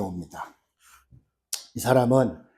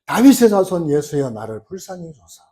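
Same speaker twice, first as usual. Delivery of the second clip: crying out louder; 4 dB louder than usual. Retold or imitated. Blind beggar shouting louder over the crowd to Jesus, a stronger cry. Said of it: "더 크게 소리 질러가지고요".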